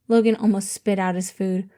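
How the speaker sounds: usual speaking voice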